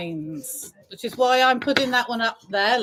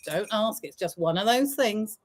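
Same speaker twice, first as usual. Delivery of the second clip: dropped low, muttered aside; quiet aside; 5 semitones lower, 5 dB quieter than usual. Shown as a demonstration. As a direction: say it softer under the breath.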